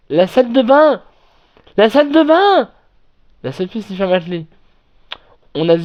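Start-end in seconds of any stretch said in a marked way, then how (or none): 0.1-2.7 rising shout, higher and louder; calling out in alarm, building; retold shout. Girl in the cabin shouting for the bathroom, rising alarm. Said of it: "une des filles qui crie".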